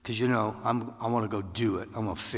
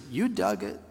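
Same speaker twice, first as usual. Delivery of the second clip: kind; 10 semitones higher than usual. Retold or imitated. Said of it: "he very kindly said".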